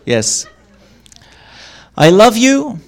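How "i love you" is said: tender. Shown as a demonstration. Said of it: "Context and tone of voice shape the meaning".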